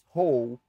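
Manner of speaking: "Roll" said as the English word, tongue pulled back; a clear, loud demo of "Roll" as in English, tongue low and back. Shown as a demonstration. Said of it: "Como se falasse em inglês".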